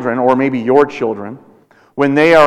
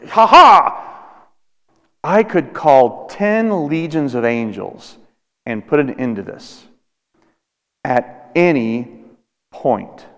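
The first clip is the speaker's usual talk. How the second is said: defiant declaration; slower than usual. Retold or imitated. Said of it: "describes to somebody how".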